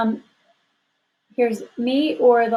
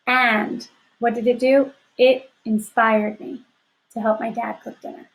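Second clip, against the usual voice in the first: slow reading aloud. Shown as a demonstration. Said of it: "Now here's the second independent clause".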